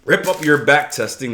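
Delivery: a manly, forceful "Rip up your back testing". Shown as a demonstration. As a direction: hit "up" hard, like you mean it. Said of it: "That's more manly".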